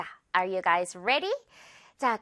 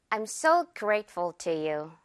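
slow demo; 2 semitones lower, much slower than usual. Shown as a demonstration. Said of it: "듣고 따라해 주세요".

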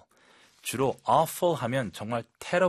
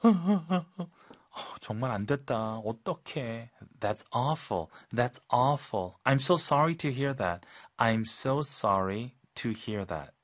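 sympathetic; much slower than usual. Shown as a demonstration. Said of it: "아주 부드럽게".

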